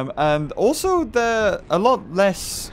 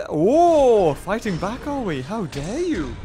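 theatrical mock offence; mock indignation; 4 semitones higher, slower than usual. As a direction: play at being affronted. Game opponent fights back, mock outrage.

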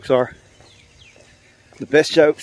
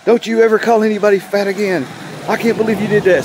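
high, raised-voice telling-off; yelling scolding; 8 semitones higher than usual. Acted. Store owner punishing his rude bird, acted yelling. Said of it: "The owner's yelling at him".

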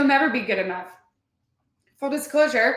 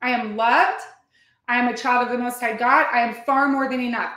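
affirmation. Shown as a demonstration. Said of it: "That's it".

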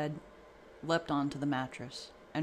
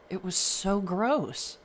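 put-on child voice; 5 semitones higher, 6 dB louder, slower than usual. A narrator's reading. Child speaks, slow and loud.

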